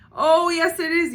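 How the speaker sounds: high loud teasing; gleeful. A narrator's reading. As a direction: gloat it with a grin. Brother laughing back.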